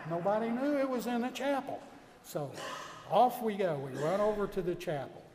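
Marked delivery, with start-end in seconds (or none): 0.1-1.8 higher and louder, still astonished; amazed. Real, not acted. Preacher telling the congregation, amazed. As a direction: let the surprise burst out. Teller relives the surprise.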